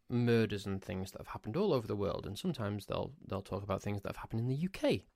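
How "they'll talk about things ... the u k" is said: ordinary talk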